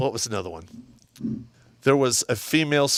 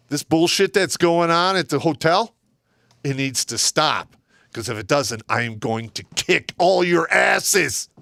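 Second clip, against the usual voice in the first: stern dressing-down; 3 semitones higher than usual. Retold or imitated. Sergeant voiced scolding his soldiers.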